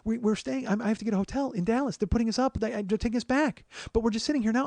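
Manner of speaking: high, loud, agitated retelling of a partner; imitating a partner getting wound up; revving up. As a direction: get worked up and pile on the complaints. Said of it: "kinda revving".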